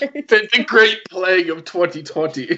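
put-on gather the kids round like grandpa; rambling grandpa story.

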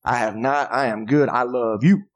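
reassuring husband. Acted. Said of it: "all the guys are like".

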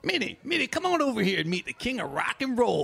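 calling out. Acted. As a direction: call her over brightly. Calling someone over.

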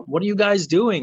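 exasperated disbelief. Retold or imitated. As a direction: ask it like a baffled fan. Retelling own reaction to coaching.

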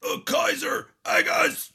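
very high, loud whiny pet voice; squealing dog names in baby talk. Shown as a demonstration. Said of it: "You have to be like".

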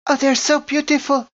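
high, loud delighted gasp of wonder; excited gushing. Acted. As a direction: marvel at them, voice soaring. Doctor gushing over flying creatures.

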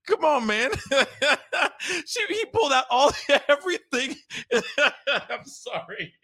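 high, giggling; laughing. Real, not acted. Host laughing at everything being handed over.

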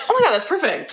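high, laughing gush; mock delight. Acting out thrift shopping delight.

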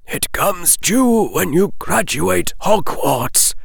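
put-on old wizard explaining the debt. A narrator's reading. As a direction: speak down kindly from the high bench. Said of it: "the old wizard said from high above".

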